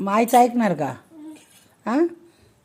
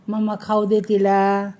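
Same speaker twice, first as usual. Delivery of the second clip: mock pleading to mamma. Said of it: "मी कशी सांगते मम्माला?".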